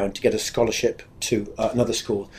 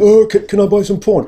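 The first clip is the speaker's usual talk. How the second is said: much higher, louder hesitant squeak; high-pitched voice; 9 semitones higher, 6 dB louder than usual. Retold or imitated. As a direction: squeak it out like a nervous boy. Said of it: "in my high-pitched voice".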